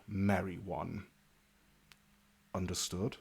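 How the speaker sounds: measured, deliberate orders with weighty pauses; stern knight. Acted. Sir Amadeus briefs new town guards, stern and deliberate. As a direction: lay down the rules firmly.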